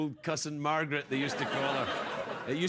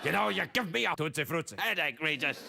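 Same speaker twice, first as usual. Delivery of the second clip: mock Margaret; 2 semitones higher than usual. Host voices Margaret at Regis.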